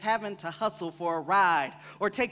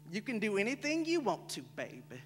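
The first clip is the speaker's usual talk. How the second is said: tender encouragement; 8 dB quieter than usual. Acted. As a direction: softly reassure a child. Adult encouraging child, voiced in poem.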